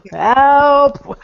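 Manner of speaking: loud, high, hammed-up call for help; mock cry for help. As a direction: play it like a playful plea for rescue. Comic opening, calling for help.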